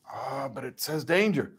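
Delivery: slow, timid hesitation; hesitant subject. Retold or imitated. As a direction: hesitate nervously at the dial. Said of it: "hesitate and be like".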